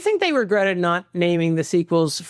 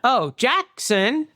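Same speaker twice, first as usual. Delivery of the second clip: bad child actor; 6 semitones higher, slower than usual. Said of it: "Just a bad child actor".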